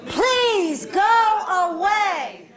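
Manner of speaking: high, slow shout with every word stretched; full loud shout. Shown as a demonstration. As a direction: belt it out high and long. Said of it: "let's say it one octave louder".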